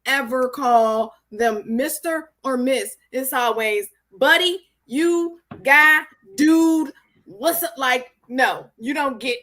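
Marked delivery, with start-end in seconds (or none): 4.2-7.7 casual address. Acted. Demonstrates casual forms of address.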